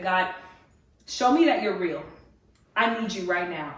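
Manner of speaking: pleading out loud to God, half-reenacted; crying out to God. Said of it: "cry out for God, like never before, literally at the top of my lungs".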